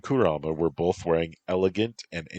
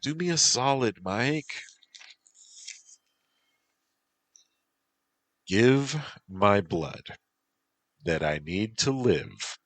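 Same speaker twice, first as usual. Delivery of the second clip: Whisper; 6 semitones higher than usual. Acted.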